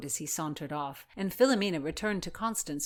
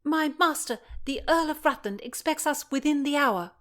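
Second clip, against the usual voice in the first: high, firm page voice; commanding page; 10 semitones higher, 4 dB louder than usual. A narrator's reading. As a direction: demand it with authority. Voices Constance.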